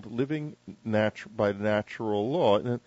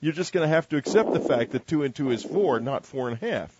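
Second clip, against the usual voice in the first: nature's voice; 5 semitones higher, 3 dB louder than usual. Pretend. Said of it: "nature is actually going to be telling us".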